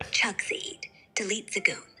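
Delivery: put-on German-accented slogan; "the" said as "ze", German style. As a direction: pitch it with a light German accent. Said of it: "I can switch to a German accent".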